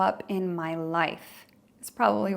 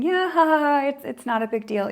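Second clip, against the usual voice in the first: forced high laugh brushing it off; false laughter; 6 semitones higher, 4 dB louder than usual. Retold or imitated. People pleaser hiding discomfort from the teaser, forced laughter. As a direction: fake a laugh to please them. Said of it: "False laughter".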